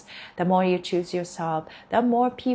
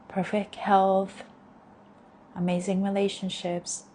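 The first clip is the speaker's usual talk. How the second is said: guided affirmations. Acted.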